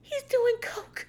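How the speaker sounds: high, slow, laughing he's doing coke; laughing suspicion. Pretend. Suspecting her brother, a high laughing aside. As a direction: crack up as you say it. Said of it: "I'd be like".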